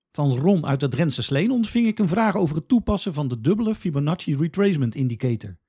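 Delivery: usual speaking voice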